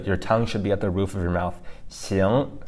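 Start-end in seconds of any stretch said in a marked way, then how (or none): 1.9-2.7 "Xing" with a rising tone; second tone. Shown as a demonstration. Teacher breaking the word down, "Xing" rising in second tone. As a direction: lift "Xing" upward, between s and sh. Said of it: "second tone".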